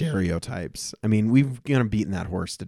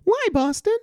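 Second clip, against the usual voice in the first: mocking a whiny character with a much higher, squeaky "Why, Boston?"; hammed-up helpless whine, pitched way up; much slower than usual. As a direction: squeak it out high and helpless like a parody. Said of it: "With Mary".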